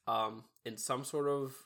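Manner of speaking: stuffy nose from a cold; blocked nose. Real, not acted. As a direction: talk through a blocked nose. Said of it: "I sound really bad".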